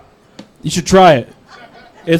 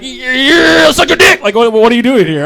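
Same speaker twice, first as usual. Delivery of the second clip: high-pitched unhinged yell; crazed attic brother; 6 semitones higher than usual. Acted. Attic meth dealer answering a customer, unhinged high squeal. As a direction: draw out the yeah, then squeal the insult.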